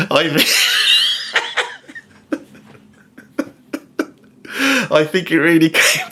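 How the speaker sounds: high, slow words squeezed through laughter; real corpsing mid-sentence; helpless laughter. Real, not acted. Comedian failing to finish the lyric, helpless laughter. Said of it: "I'm just laughing at it".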